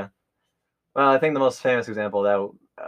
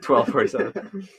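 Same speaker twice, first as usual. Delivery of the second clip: mocking uptalk; 3 semitones higher, slower than usual. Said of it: "I mockingly went".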